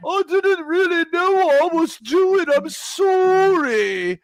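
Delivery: high, slow, hammed-up tearful sorry; mock apology. Mocking the woman apologising to the crowd, high whimpering. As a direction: whimper it out like a cornered panelist. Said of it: "And she's like".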